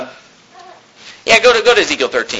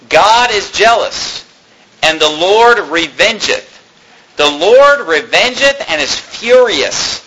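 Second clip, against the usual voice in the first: slow, drawn-out preaching delivery; solemn pulpit reading with weighty pauses; emphatic scripture reading; slower than usual. Acted. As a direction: proclaim the verse, stretching the key words. Preacher reads scripture aloud.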